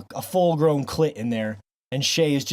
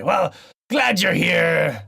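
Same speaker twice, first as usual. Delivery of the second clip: slow pirate welcome; much slower than usual. Acted. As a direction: greet the guest like an old sea captain. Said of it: "talk in a weird pirate voice the whole intro".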